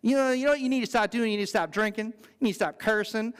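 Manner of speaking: lightly put-on Southern lady accent; imitating a Southern lady's accent. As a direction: nag with a touch of Southern twang. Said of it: "the Southern lady accent".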